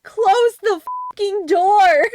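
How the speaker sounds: high, loud panicked shouting; panicked yell. Real, not acted. Panicked yelling at game scare.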